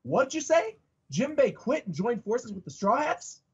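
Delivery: shocked character. Acted. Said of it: "and he goes".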